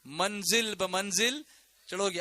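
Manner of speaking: very slow, word by word; solemn lead-in. Real, not acted. Preacher gives congregation the phrase to repeat, slow and solemn. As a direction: space it out for repeating.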